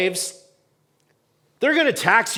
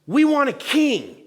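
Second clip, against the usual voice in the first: mock demand; 8 semitones higher than usual. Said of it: "They're saying".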